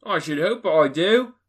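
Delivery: high, loud, astonished; boy amazed at the question; street boy. A narrator's reading. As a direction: answer as a cheeky boy. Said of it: "replied the lad".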